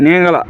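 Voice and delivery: নেঙ্গলা with its special sound stressed; teacher showing how নেঙ্গলা sounds; Malayalam pronunciation. Shown as a demonstration. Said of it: "এরকম একটা উচ্চারণ আছে".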